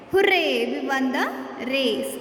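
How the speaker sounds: a lightly excited classroom cheer. Shown as a demonstration. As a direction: cheer the win for the pupils, mildly happy. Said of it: "This is excitement or full of happiness".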